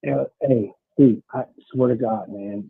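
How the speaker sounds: muffled caller on a bad line. Real, not acted. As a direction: voice muffled as if through a door. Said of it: "why do you sound so muffled".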